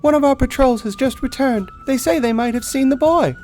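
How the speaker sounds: loud, urgent soldier's report; ranger's report. Acted. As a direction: call out the news to the party.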